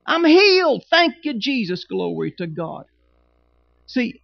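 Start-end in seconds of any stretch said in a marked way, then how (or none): 0.0-2.9 joyful confession. Shown as a demonstration. Pastor showing the church how to declare healing, loudly. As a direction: shout the healing, then settle into thanks. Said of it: "speak back his word as if we believe".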